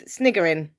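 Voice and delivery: "Sniggering" with a hard g in the middle; voiced g sound in "Sniggering"; corrected word. Shown as a demonstration. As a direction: say "Sniggering" with g, not k. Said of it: "Not snickering. That's a chocolate bar".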